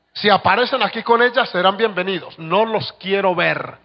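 stern pastor's order. Retold or imitated. Pastor sending out the young men.

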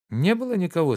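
anxious call. Acted. Oblomov calls anxiously to Zakhar.

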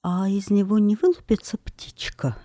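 high, breathless worried question; trembling voice. Acted. Queen nervously asking the witch about the egg, trembling whisper. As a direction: ask it timidly, afraid of the answer. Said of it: "сказала королева дрожащим голосом".

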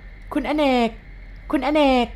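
high, drawn-out call of his name; wife urgently calling out to a man on the street. Acted. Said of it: "ร้องเรียกชื่อเขาอย่างกระชั้น".

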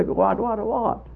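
soft, unhurried little questions; quiet, mildly puzzled calm; calmly. Retold or imitated. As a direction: ask without a care in the world. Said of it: "The Indian said calmly".

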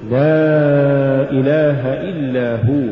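slow, long لا, then a rising separate هو; separate words. Shown as a demonstration. Teacher repeats the correct form, هو set apart from إلا. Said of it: "قل".

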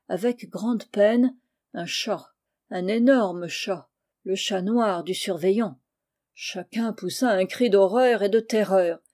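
ordinary delivery, nothing marked

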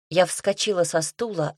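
ordinary delivery, nothing marked

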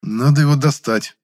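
loud, high-pitched mock-sage verdict; profound pronouncement. A narrator's reading. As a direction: announce it as a great insight. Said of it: "глубокомысленно изрёк я".

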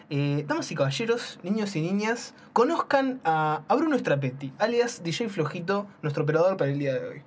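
grand showman introduction; ringmaster. Acted. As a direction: announce him like a circus ringmaster. Introduces the new operator.

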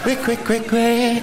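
high mocking quick-quick; hammed-up high squawk; mock quack. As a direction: tease him like a squawking bird. Mocking the changed voice.

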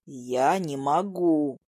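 low, very slow mock groan. A narrator's reading. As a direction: moan it out, dragged and low. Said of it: "простонал он". (низкий протяжный стон)

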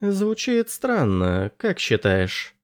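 put-on apologetic young man, slightly awkward; Anders voice. A narrator's reading.

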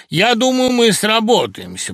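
bestow favour graciously; benevolent. A narrator's reading. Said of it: "благожелательно глянув на главного". (благожелательно, свысока)

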